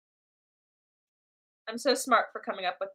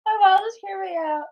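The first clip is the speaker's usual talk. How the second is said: normal talking voice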